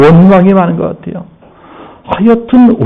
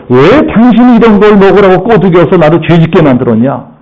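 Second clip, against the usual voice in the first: higher, reproachful accusation; accusing wife; 4 semitones higher than usual. Acted. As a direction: blame her bitterly. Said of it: "이 아내를 원망을 합니다". (아내를 탓하며 원망하는 목소리)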